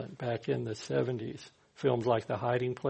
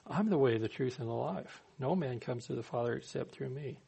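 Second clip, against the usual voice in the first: softer, calm declaration, lightly voiced; a hint of quiet Jesus; 6 dB quieter than usual. Preacher quoting Jesus softly to his listeners. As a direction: say it gently, as Jesus would. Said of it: "There he goes talking like that again".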